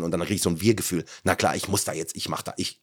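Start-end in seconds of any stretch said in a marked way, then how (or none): 1.2-2.8 retold thought, low and soft; quiet self-talk. Streamer retelling his first reaction to the chat, quiet. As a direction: mutter a hesitant resolve to yourself.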